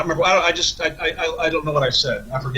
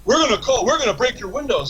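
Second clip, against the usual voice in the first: mock drunk threat; 9 semitones higher than usual. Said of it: "and they're like".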